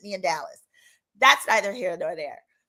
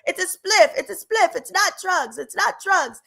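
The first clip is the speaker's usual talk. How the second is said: put-on defensive boyfriend; 8 semitones higher, 3 dB louder than usual. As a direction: play him insisting it's just weed. Boyfriend insisting repeatedly.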